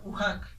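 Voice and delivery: ujak with the H said as a soft Spanish J; softened Castilian J in ujak. Shown as a demonstration. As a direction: say ujak with a gentle J sound in the middle. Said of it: "El H suena como la J, pero más suave".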